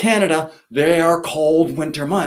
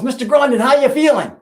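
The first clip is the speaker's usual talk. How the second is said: put-on high, louder call of a boy across the washroom; yelling kid; 8 semitones higher, 4 dB louder, faster than usual. Boy yells at principal in washroom, mock high call. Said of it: "and he yells".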